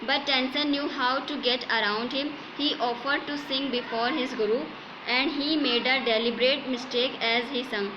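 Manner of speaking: slow, measured textbook reading; story read-aloud. A narrator's reading. Teacher reads English story to students, slow measured read-aloud. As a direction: read it out phrase by phrase.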